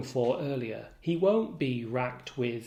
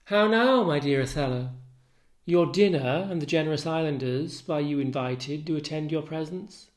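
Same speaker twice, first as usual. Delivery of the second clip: lightly voiced Desdemona; 4 dB louder than usual. Wife calling husband in to dinner, lightly acted brightness.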